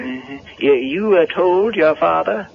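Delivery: put-on high, rustic old handyman voice; Digger the handyman. Caretaker startled by Linda at the barn door, high rustic voice. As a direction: play a jumpy country caretaker. Digger asks about father.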